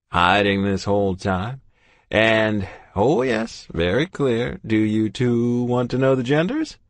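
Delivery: put-on jovial old doctor, booming hello; kindly old doctor voice; cheery doctor. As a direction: greet them like a beaming family doctor. Doctor explains twins.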